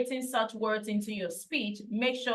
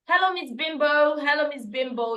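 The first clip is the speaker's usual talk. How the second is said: mock greeting, pitched up then settling; teacher's anglicized greeting; 3 semitones higher, 3 dB louder than usual. Teacher greeting a pupil by a misheard name, anglicized. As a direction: imitate a teacher's anglicized hello. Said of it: "this teacher that would say".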